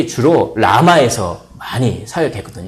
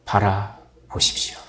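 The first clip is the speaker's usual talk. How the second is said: whisper; 6 semitones lower, 8 dB quieter, slower than usual. Acted. Urging congregation to look.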